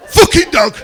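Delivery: high, loud imitated child's yell; screaming outburst. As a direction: shout it like the ranting old man in Father Ted. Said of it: "who starts screaming and starts shouting".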